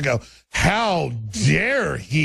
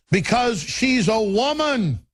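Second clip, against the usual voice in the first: high, slow, drawn-out sneer; sarcastic; 6 semitones higher, slower than usual. Acted. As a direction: stretch it out, dripping with mockery. Mocking the media's excuse, repeated.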